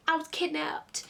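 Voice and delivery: imitating a casual whisper; a toneless whispered aside; offhand whisper. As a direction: breathe it out like it's nothing. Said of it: "This is exactly how she was saying this".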